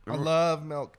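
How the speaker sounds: "milk" pronounced towards "melk", with an eh. Real, not acted. Host declaring his love of milk, saying "milk" as "melk". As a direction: let "milk" slide to "melk". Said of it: "you got a little bit of eh in there".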